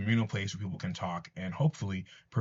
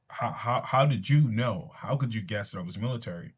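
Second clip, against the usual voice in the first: taken aback. Retold or imitated. Gunman caught off guard by the captain, stammering mock surprise. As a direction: retell the gunman's stammered shock lightly. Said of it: "kinda taken aback".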